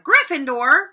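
the hat bellows the house name; shouted. Acted. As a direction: announce the house to the whole hall. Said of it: "When it finally shouted".

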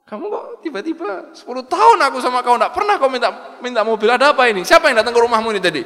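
high, loud and fast, with a laugh of disbelief; suspicious husband. Acted. Husband grilling his wife about who whispered to her, high and fast. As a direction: demand who put the idea in her head.

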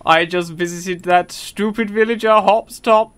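lightly voiced cartoon figure; deliberate character voice, slowing at the end; Mister Popo. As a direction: keep up the measured impression. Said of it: "that's actually quite a good voice for him".

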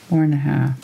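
talking around a paintbrush; muffled by a brush in the mouth; mouth full. Real, not acted. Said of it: "weren't you ever told not to talk when your mouth is full".

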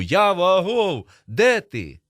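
high, loud, drawn-out holler; full-throated calling. A narrator's reading. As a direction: holler for a friend lost in the corn. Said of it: "кричу я на повну губу".

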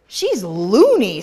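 slow, loud taunt; mocking children. The other children mock Vivian, slow and taunting. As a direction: drag it out as a taunt.

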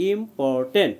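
ইম্পর্টেন্ট in parts, im, por, ten; broken into syllables. Shown as a demonstration. Teacher putting the spelled parts together, syllable by syllable. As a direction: sound out ইম্পর্টেন্ট part by part. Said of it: "এইভাবে ভেঙে ভেঙে".

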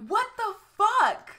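stunned disbelief. Real, not acted. Reacting to February news.

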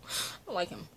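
a hushed aside of dislike; whispered. Real, not acted. Repeating dislike of a character.

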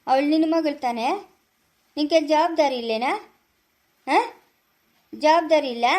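indignant challenge. Acted. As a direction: demand an answer, scolding. Challenging him about his daughter. (ತರಾಟೆಗೆ ತೆಗೆದುಕೊಳ್ಳುವ ದನಿ)

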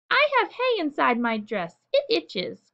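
put-on girl calling out to her brother. A narrator's reading. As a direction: call out over the noise, itchy. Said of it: "called Fern".

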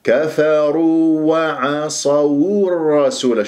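slow كفروا, light kaf and fa, heavy tapped ra; correct recitation model. Shown as a demonstration. Teacher recites for students to copy, slow and precise. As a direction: draw out كفروا وعصوا الرسول with each letter distinct. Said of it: "فلازم أنا أخلص كفروا وأقرع".

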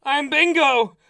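slow, loud goofy clown voice; silly clown. Pretend. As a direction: introduce yourself as a dopey clown. Playing Bingo the clown.

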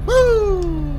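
high, loud cheer; excited whoop. Real, not acted. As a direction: whoop with joy. Starting expansion pack.

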